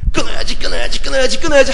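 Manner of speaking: loud, high, strained repeating; mock resolve. Addict straining to quit, loud chanting vow.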